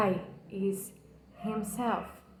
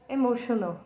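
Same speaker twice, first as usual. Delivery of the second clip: a real hushed breath on "emotional."; whispered, nearly tearful; moved whisper; much faster than usual. Real, not acted. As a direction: whisper "emotional." as feeling rises. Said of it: "it makes me wanna cry".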